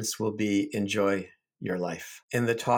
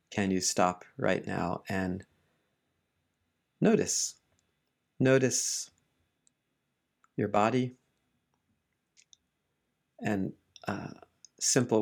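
unhurried meditation guidance with long pauses; gentle teacher leaving space between phrases; guided meditation. Real, not acted. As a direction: ease listeners into relaxing, phrase by phrase.

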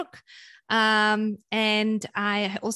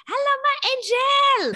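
put-on high, slow adoring greeting to a child; tender Zulu nanny greeting; loving greeting; 5 dB louder, slower than usual. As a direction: sing it out like a doting nanny. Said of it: "she would go".

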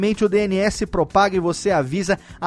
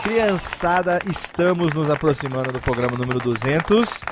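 silly clown; 6 semitones lower than usual. Acted. Clown-like low announcer voice.

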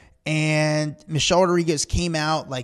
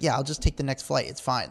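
softer, laid-back shrug of a surfer; chill; 2 semitones lower, 6 dB quieter than usual. Retold or imitated. Surfer shrugging off a missed flight, chill. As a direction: imitate someone totally unbothered, letting it drop away quietly. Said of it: "Kelly was so chill about it".

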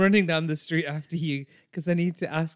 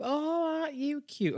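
high-pitched cooing over a stranger; tipsy-bar flirt, pitched right up; Brenda; 13 semitones higher than usual. Acted. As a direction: coo in a put-on high voice. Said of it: "she's gonna talk to you 'cause".

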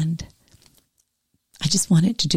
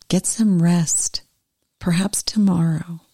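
gentle. Acted. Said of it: "touching his sleeve gently".

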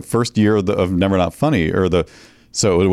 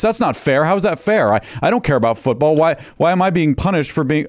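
higher mock teen rant, lightly voiced; 6 semitones higher than usual. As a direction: imitate a teen daughter ranting about unfairness. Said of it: "she came out ranting".

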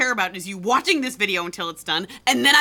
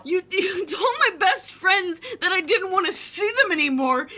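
yelling accusation; 7 semitones higher than usual. Acted. She yells at her boyfriend over what he told her friends. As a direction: hurl the accusation at him. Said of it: "You're yelling at me".

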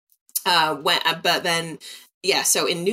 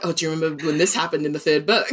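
excited fan; faster than usual. Retold or imitated. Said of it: "we're like".

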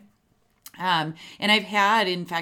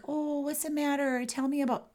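squishy sympathetic; 8 semitones higher than usual. Shown as a demonstration. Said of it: "that is weak and not confident".

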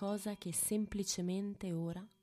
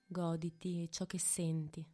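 whispering. Acted. Whispered meditation instruction.

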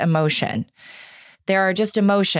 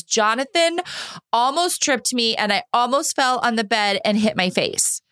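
put-on higher, whiny kid voice complaining about her brother; upset little daughter; 5 semitones higher than usual. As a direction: play the hurt little girl tattling.

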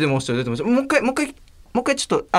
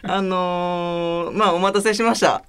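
ordinary talk, nothing marked

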